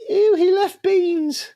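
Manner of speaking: high, slow squealing ew; disgusted squeal. Acted.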